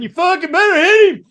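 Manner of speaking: high-pitched acted yell; mock frantic urging; egging him on. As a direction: yell it like a buddy goading a fighter. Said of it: "Gary's going".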